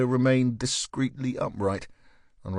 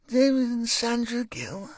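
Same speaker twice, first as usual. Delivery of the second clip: sharply higher, startled question; surprised; 13 semitones higher than usual. Acted. Wife startled to hear her friends named. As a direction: jump in, caught off guard.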